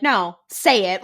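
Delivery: drawn-out mock-dramatic demand; Twilight-style demand. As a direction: insist slowly, imitating a melodramatic film. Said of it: "Like Twilight style".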